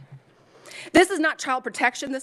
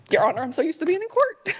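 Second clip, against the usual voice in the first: laughing; 6 semitones higher, 4 dB louder than usual. Real, not acted. Laughs at own slip.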